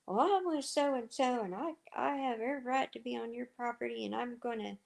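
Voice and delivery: a mock-pushy stranger insisting; mocking the oil worker. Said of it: "And he goes".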